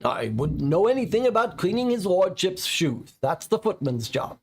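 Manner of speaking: a butler's pique, lifted high; offended. Acted. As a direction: sniff at the insult, voice up. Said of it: "he says, offended".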